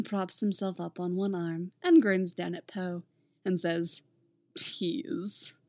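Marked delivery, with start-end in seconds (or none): 4.6-5.5 fond, soft whisper; affectionate. Acted. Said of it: "with great affection in his voice".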